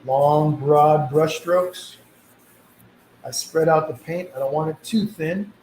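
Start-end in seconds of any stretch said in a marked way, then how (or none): none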